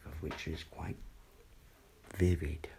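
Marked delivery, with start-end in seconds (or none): 2.2-2.7 whisper. Real, not acted. Whispered word.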